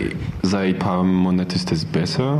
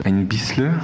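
learner's Swabian "bissle"; Swabian dialect; 3 semitones higher than usual. Shown as a demonstration. Volunteer gives an example of local words, in Swabian dialect. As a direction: say "ein bisschen" as Swabian "ein bissle". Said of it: "in Schwäbisch".

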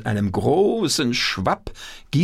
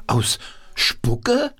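puppet voice; 9 semitones higher than usual. Acted. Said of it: "Wolfram mit der linken Hand".

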